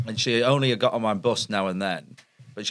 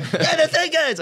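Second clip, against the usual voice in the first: high, chatty mock Scouse; Scouse bus driver. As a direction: caricature a talkative Scouse driver. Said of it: "it's a Scouse bus driver".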